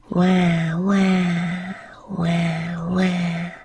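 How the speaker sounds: mock baby wail, voiced out of the whisper; imitating baby crying. Narrator showing how the baby sister cried, mock wailing. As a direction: lightly imitate a newborn's wah wah cry. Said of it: "like that".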